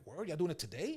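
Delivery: chuckling in disbelief; laughing disbelief. Retold or imitated. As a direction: laugh through the question.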